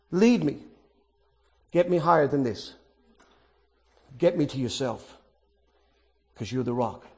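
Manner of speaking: dropping to a soft, low plea; hushed prayer. Acted. Preacher voicing David's cry, fading soft and low. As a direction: let the prayer sink to a near whisper.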